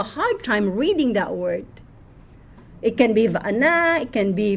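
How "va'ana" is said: "va'ana" with a final ah vowel; ending in "ah". Shown as a demonstration. Teacher showing possible readings, "va'ana" ending in ah. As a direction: say "va'ana", closing on an open ah. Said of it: "If there's no e".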